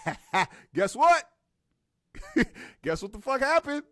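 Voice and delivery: high, laughing gossip; can't wait to spill it; gleeful laughing. Retold or imitated. Plumber laughing on the phone, telling the news.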